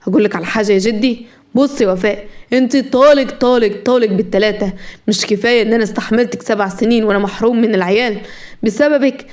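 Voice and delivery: understated angry tirade; mildly heated, resolute husband; agitated anger. Acted. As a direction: tell them off with firm irritation. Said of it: "مهران بعصبية".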